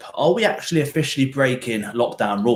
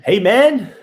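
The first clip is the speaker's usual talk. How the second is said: "man" lifted high and louder, falling; hey man, high on man; 8 semitones higher, 5 dB louder than usual. Shown as a demonstration. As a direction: hit "man" high then drop. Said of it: "Or hey, man?".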